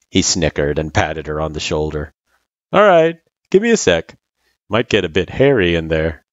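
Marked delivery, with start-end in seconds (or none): 2.7-6.3 casual guy voice. Acted. Sans answers the kid.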